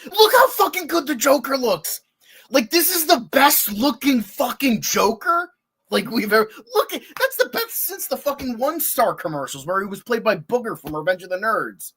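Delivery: high, loud, excited gush; thrilled outburst. Real, not acted. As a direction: burst out in delight over the Joker. Thrilled by the Joker's look.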